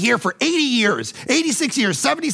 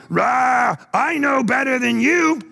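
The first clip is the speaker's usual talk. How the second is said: brash shouted defiance; hammed-up stubborn shout; mock defiant roar; 5 semitones higher, slower than usual. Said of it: "You're going".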